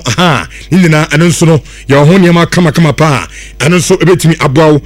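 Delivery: loud, pushy radio advert voice; hard-sell ad read. Acted.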